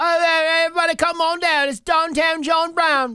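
very high, loud put-on voice. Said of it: "That's a pretty good Julie Brown impression".

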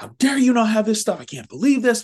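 acted angry outburst. Retelling how a woman lost her mind at a store employee: mock angry outburst. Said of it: "This woman loses her mind on this poor little employee".

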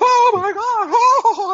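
very high, shrill, loud giddy scream, "God" stretched. Speaker acts out game-show contestants being called down, mock excited scream. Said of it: "and they're going crazy".

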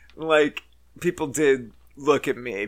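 ordinary delivery

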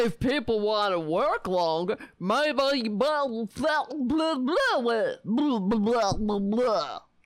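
dumb, homespun yokel voice. Mocking a speaker's argument by repeating it in a dumb yokel voice. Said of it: "I sound like a fucking dummy yokel".

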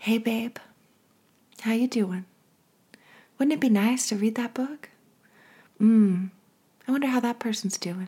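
soft little whisper. Showing how intuition sounds, calm and unhurried: little whisper. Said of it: "It's a little whisper".

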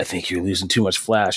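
whispered speech. Speaker recounts sneaking up behind a man taking photos, retelling a whisper. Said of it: "i came up behind him and i whispered".

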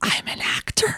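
barely voiced, very hushed, secretive whisper. Retelling a confession in a parking lot, imitating Chad whispering. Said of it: "why are you whispering".

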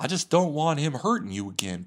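high, loud, swooping delivery. Retelling a TV episode, quoting a character: imitating Uncle Phil's voice. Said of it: "I don't know why I'm using that voice".

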